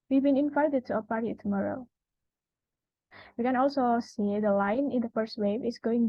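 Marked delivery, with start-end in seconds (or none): 0.1-1.9 statement tune, pitch falling on "tomorrow"; falling declarative pitch. Shown as a demonstration. Presenter repeating a declarative example, "tomorrow" falling in pitch. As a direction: let "tomorrow" drop to make a statement. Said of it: "we use falling pitch".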